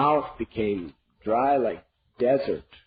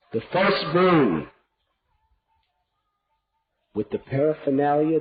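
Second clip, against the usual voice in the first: Kaikeyi's demands. Acted. Queen to king, coldly stating both boons. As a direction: press each demand home.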